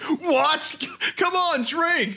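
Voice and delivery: high-pitched mock outrage; imitated peer pressure. Host imitating friends pushing drinks, high mock-incredulous voice. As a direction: mimic pushy friends in a high voice. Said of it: "and you guys are like".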